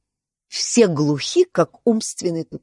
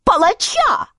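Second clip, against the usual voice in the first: very high shrill-free queen's call; queen demanding the executioner; 14 semitones higher than usual. Acted. The Queen jumps up and calls for the executioner in a high voice. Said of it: "королева в попыхах вскочила".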